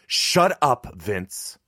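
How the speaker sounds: sharp, high, loud rebuke; snapping mother, loud then dropping on the name; barked order. A narrator's reading. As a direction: cut him off with a bark. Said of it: "Mom barked".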